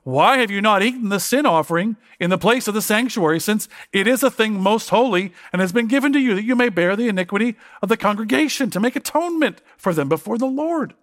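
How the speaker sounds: lightly acted angry reproach, pitch lifted; mild anger. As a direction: read it as a somewhat angry rebuke. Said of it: "the anger in his voice".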